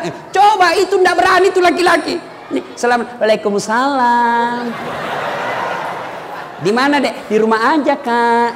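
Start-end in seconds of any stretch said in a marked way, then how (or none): 2.7-8.5 swooning sweet voice. Shown as a demonstration. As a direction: coo it to make him melt. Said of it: "jangan kau juga mendayu-dayu". (suara mendayu-dayu manja)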